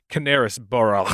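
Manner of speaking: Canarisborough, extra syllable after the C; Canarisborough guess. Shown as a demonstration. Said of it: "really out in left field and be like".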